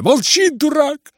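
put-on very high, loud boyish yell; boy's shout. Kolya to his brother, boyish yell. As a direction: shout him down. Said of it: "закричал Коля".

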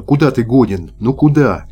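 mildly indignant, rising retort; cross scolding. A narrator's reading. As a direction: scold him with some exasperation. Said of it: "сердитым шёпотом сказала девушка". (сердито, с укором)

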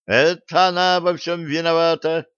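high, indignant shout; shouting together. Acted. Girls yell accusations at each other, high and shrill. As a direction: blame her at the top of your voice. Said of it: "дружно заорали девочки".

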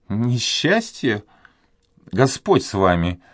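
lightly voiced pious old maid, taken aback; old duenna. A narrator's reading.

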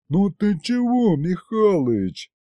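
high, drawn-out sulky protest. A narrator's reading. Demon objects to grandpa's insults, sulky. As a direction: whine a little, offended. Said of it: "насупился бес".

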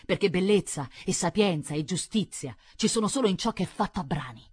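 starts measured, building to emphatic conviction; lightly voiced visionary nobleman; fanatical viscount mentor. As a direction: instruct the boy in your twisted philosophy. Viscount preaches to his nephew.

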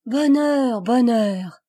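loud cry of joy; joyful cry. A narrator's reading. Passerose crying out with joy at the well, loud. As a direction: shout it out, overjoyed. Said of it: "cria Passerose".

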